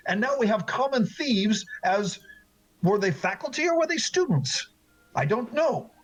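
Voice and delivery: restrained anger, climbing in pitch by the end; barely contained temper. Acted. Former student questions the master who forgot him, temper barely held. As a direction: hold the temper in until it starts slipping. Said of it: "he is barely containing his temper".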